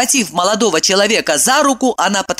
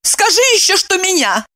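high, ironic; sarcastic; 13 semitones higher than usual. A narrator's reading. Evdokia sarcastically needles Kirillov. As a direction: tease him.

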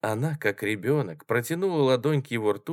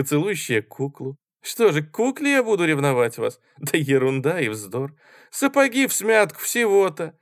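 higher, louder scornful lecture; lightly voiced scornful man; 5 semitones higher, 4 dB louder than usual. Коржиков отчитывает Марусю свысока, громче. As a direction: talk down to her like a child.

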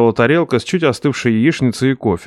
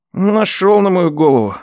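higher grumbling nephew; 7 semitones higher than usual. Acted. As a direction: sigh at the boss.

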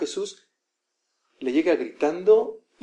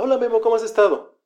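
friendly greeting, pitched up; saludo efusivo; 7 semitones higher, 4 dB louder than usual. Acted. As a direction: greet an acquaintance, lifting the voice. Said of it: "llega alguien y te saluda". (saludo animado, voz más aguda)

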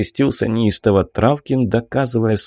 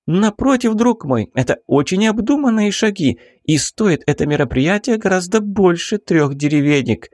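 urgent baroness; 9 semitones higher than usual. A narrator's reading. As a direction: drag each word out high, demanding action now. Baroness voiced in story.

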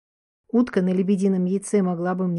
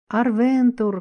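distant crying call; 4 semitones higher, 4 dB louder, much slower than usual. Acted. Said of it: "кричали они".

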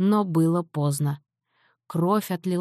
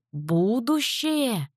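very slow, higher scoffing exclamation; exclaiming; 6 semitones higher, much slower than usual. Acted. Father scoffs at grandfather's word, slow exclaim. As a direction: stretch "Будущее!" in scornful disbelief. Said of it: "воскликнул папа".

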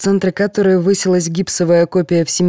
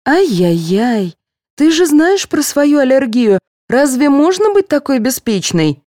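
higher, slow tut-tutting reproach; higher, reproachful nurse; 8 semitones higher, 3 dB louder than usual. A narrator's reading. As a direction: scold her like a naughty child. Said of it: "укорила Ирина девушку".

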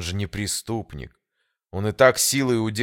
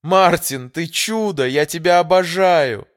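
high, loud squeal of delight; joyful squeal; 11 semitones higher, 9 dB louder than usual. A narrator's reading. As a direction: squeal it out, bursting with joy. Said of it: "Эмилия завизжала от радости".

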